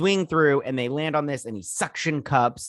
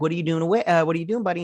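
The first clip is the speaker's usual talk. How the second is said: put-on higher-pitched chat to a little kid; imitated dad talk; 5 semitones higher, much faster than usual. Father on the phone to his son, imitated dad talk. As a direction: play a father checking in on his boy.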